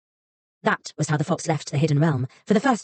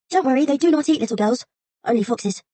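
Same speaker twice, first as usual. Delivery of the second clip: high, timid fox voice; 7 semitones higher than usual. A narrator's reading. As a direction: shrink back fearfully.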